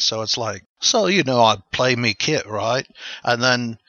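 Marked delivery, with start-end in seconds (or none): 0.8-2.9 a quick hammed-up young drummer, lightly Scouse; impression of a drummer in his early days. Shown as a demonstration. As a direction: a band's drummer mimicked as a cheeky lad. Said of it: "he's got a much deeper voice nowadays".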